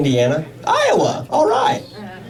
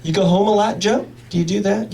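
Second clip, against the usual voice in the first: imaginary voice; 7 semitones higher than usual. Pretend. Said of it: "imaginary voice asking me".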